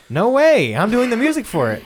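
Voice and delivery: high, loud thrilled burst; excited high exclaim. Retold or imitated. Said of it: "I'm like".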